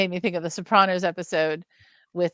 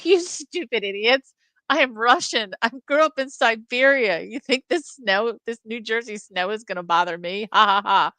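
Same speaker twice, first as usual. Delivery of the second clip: a light Russian accent, higher and mocking, ending in a scoffing laugh; mock Russian tough guy; 3 semitones higher than usual. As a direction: sneer at the fools in a hint of a Russian accent. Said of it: "the Russian guy goes".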